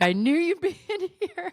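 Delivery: high knowing friend voice; friend's voice. Retold or imitated. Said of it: "She's like".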